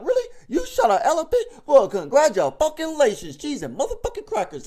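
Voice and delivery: high, loud sarcastic praise with laughter; mocking a hunter with fake awe. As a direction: congratulate him with laughing sarcasm. Sarcastic mock congratulations.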